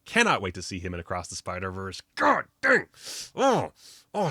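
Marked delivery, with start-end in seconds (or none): 2.1-4.3 high, loud burst of excitement; excited outburst. Real, not acted. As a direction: shout it out, thrilled. Excited reaction to post-credit scene.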